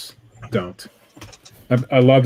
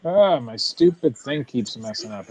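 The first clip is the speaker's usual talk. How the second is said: underwater; 4 semitones higher than usual. Real, not acted. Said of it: "do I sound like I'm underwater again?".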